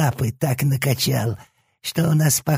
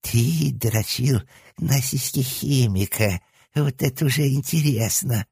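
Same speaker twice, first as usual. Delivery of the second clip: higher, slow thrilled leer; excited whine; 7 semitones higher, slower than usual. A narrator's reading. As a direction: relish every word. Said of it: "восторженно заскулил левый".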